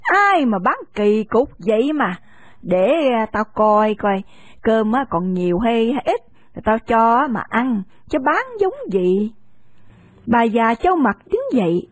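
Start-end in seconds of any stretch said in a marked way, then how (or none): 0.0-9.3 put-on an old shopkeeper grumbling then giving in; lightly voiced cranky old lady; grumbling old woman. Old woman scolds then relents.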